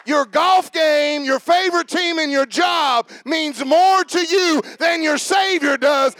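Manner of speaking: high, loud, slow preacher's challenge; preaching at full force. Retold or imitated. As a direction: drive the point home to the congregation. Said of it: "He said".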